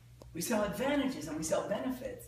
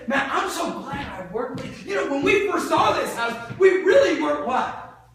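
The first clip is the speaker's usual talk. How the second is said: higher, louder grateful customer; happy customer; 4 semitones higher, 7 dB louder than usual. Acted. A customer thanking the salesman, excited and loud. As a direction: gush like a thrilled buyer.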